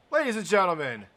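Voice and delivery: big, projected winner announcement; ring announcer. Real, not acted. Commentator announcing the winner of this round, ring announcer. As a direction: proclaim the winner to the whole arena.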